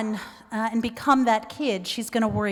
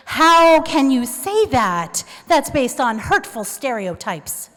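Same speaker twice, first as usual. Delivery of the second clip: slow, louder, self-righteous objection; righteous indignation; 5 dB louder, slower than usual. Retold or imitated. Daughter correcting her mother at the airport: righteous and indignant. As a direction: scold mom like a freshly minted activist. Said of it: "with all my newly minted lesbian feminist righteousness".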